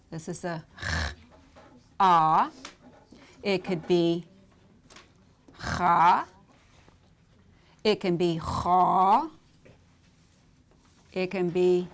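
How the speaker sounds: kamatz sounds ah, cha and cho said slowly and loud; vowel demo ah, cha, cho. Shown as a demonstration. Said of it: "You see that?".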